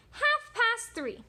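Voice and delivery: slow, high, singsong answer; wolf character. Acted. Wolf setting a time with the pig, slow singsong. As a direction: draw it out high. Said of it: "said the wolf".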